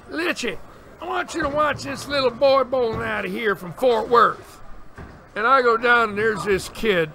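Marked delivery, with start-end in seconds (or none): 0.1-4.6 imitated Texas manager, pitched higher; a lively Texas accent from the manager. Manager tells him to watch the kid, in a Texas accent. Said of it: "got the Texas accent".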